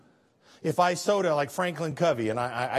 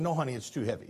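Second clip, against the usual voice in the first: put-on softly, a father calming his little boy; gentle dad refusal; 4 semitones lower, 5 dB quieter, faster than usual. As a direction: kind no to the child, softer. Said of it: "I said".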